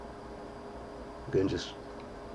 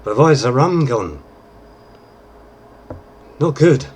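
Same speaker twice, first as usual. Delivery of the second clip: much louder, higher tipsy slurred pirate whine; drunken Jack Sparrow; 7 semitones higher, 9 dB louder than usual. Shown as a demonstration. Tutor demos Jack's drunk slur for viewers, loud high wail. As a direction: wail about the missing rum like a drunk pirate. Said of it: "talk with a bit of slur in your voice".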